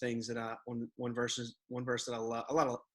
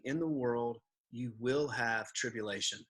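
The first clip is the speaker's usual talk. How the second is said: "you will have tribulation" spoken with firm, measured weight; emphatic. Retold or imitated. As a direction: quote it as a certainty, leaning on "will". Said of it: "he says emphatically".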